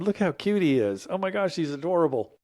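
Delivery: high-pitched cooing over a cute photo; adoring gush. Real, not acted. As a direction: gush fondly, pitch lifted. Gushing over childhood photo of self.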